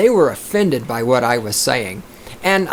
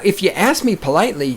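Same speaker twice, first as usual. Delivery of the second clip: normal talking voice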